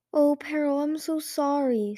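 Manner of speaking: high, drawn-out sympathy; sympathetic. A narrator's reading. Sunny comforting Peril after she was banished, sympathetically. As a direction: lift the voice in slow, tender sympathy.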